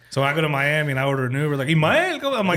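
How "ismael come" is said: high, loud Spanish call of Ismael, "Ismael" said ees-mah-EL; Spanish-accented name. Retold or imitated. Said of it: "but it's Ismael".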